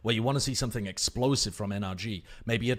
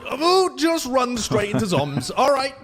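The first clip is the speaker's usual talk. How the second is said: shocked high shout into a laugh; real surprise, laughing it off; surprised; 13 semitones higher, 9 dB louder, slower than usual. Real, not acted. Surprise at sudden death.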